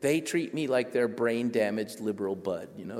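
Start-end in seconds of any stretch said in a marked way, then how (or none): none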